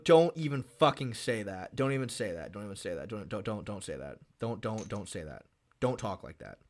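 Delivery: begging them to stop, trailing down into a mutter; fading pleading. Real, not acted. Fan suggests fighter gets submitted.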